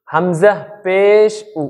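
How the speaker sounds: হামজা পেশ উ drawn out slowly, with a short rounded উ; slow recitation demo. Shown as a demonstration. Teacher slowly demonstrating the vowel for students. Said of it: "সর্বপ্রথম যেটা আছে সেটা হচ্ছে কি?".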